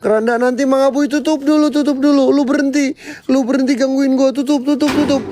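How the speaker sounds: frantic panic. Real, not acted. Coffin opens, frantic yelling.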